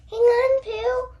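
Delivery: high, loud call back to Pooh; child's excited Piglet call. A narrator's reading. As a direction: cry out over the wind. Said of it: "Piglet called".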